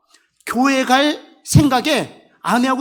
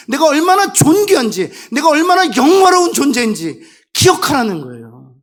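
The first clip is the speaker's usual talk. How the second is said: louder, rising fervour; preaching at full force; 4 semitones higher, 5 dB louder than usual. Acted. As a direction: drive it home to the congregation. Preaching climax. (회중에게 열정적으로 외치는 설교)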